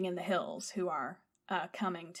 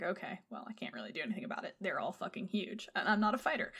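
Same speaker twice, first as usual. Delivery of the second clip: 1 resigned mutter; 2 semitones lower, 6 dB quieter, faster than usual. Retold or imitated. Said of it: "so he's like".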